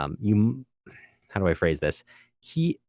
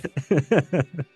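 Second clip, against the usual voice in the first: high laugh; 7 semitones higher than usual. Real, not acted. Laughing at the joke.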